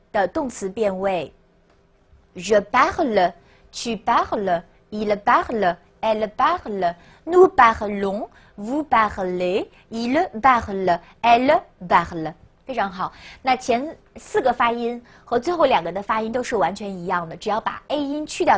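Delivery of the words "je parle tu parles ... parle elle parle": measured French conjugation drill, evenly spaced; model recitation. Shown as a demonstration. Teacher has students listen to the whole conjugation, measured model recitation. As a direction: recite each form as a unit, slowing later. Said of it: "大家听我说一遍啊".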